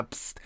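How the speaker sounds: short hissed "psst" with no voice; whispered psst. Shown as a demonstration. Calling to a woman across the street, a hiss. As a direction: hiss "psst" to get attention. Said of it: "hey there and a".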